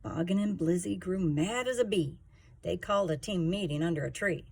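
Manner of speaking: put-on lively sing-song reading to a child; rhyming story narration. A narrator's reading. Parent reading a picture book to a child, sing-song. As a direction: read the rhymes to a little one, bouncing along.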